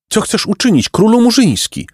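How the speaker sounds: high-pitched, anxious bird voice; lamenting pelican. Acted. Pelicans asking the boy his plan, high and plaintive. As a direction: question him in a high pelican wail.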